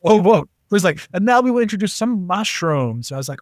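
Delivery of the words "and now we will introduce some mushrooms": higher, lightly put-on German accent; mock a German friend's formal announcement. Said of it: "Still working on my German accent".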